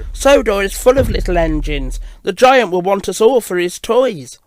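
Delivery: dismayed storybook engine; alarmed exclamation. Acted. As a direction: warn them in alarm. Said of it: "Thomas exclaimed".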